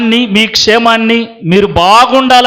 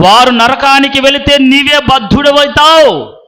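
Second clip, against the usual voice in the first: raised, insistent sermon voice; impassioned preaching; 5 semitones higher than usual. Acted. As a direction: build a driving list for the congregation. (ఆవేశంగా ప్రసంగించే స్వరం)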